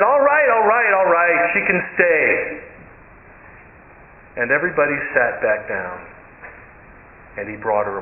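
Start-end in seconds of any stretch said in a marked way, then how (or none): 0.0-2.6 giving in. Retold or imitated. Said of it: "the man in the apron said".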